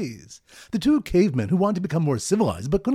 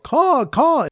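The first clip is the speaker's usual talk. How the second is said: much higher, loud amazed caw; astonished caw; 10 semitones higher, 4 dB louder than usual. Retold or imitated. Bird watchers astonished at the hovering birds, high amazed caw. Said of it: "in astonishment".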